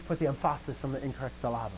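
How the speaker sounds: "emphasis" and "syllable" stressed on the wrong, second syllable: em-FAH-sis, sil-LAH-ble; misplaced stress. Shown as a demonstration. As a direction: joke mispronunciation, landing "emphasis" and "syllable" on their middle syllables. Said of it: "that is an old joke".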